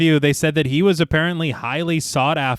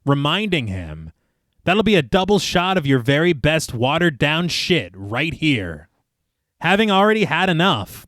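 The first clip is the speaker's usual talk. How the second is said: story narration; slower than usual. Acted. Film podcast host reads the bar scene to co-hosts, measured narration. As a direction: read the scene out steadily.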